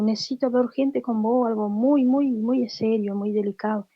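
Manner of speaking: retold earnest plea, pitched a little up; urgencia seria. Pide hablar de algo serio. (súplica seria y urgente, recreada)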